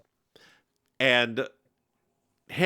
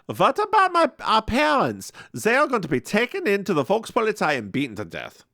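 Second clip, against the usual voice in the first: higher, urgent and accusing; upset pleading; 8 semitones higher than usual. Retold or imitated. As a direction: demand an answer from your brother, pitched way up. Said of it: "where Greta says".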